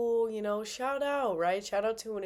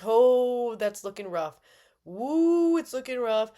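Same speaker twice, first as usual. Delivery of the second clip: worried; 3 semitones higher, 6 dB louder, slower than usual. Retold or imitated. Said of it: "I'm like".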